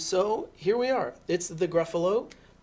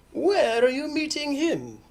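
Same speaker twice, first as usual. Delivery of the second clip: loud, high owl voice; questioning owl; 10 semitones higher, 6 dB louder than usual. Acted. Owl asks mouse about meeting Gruffalo, loud and high.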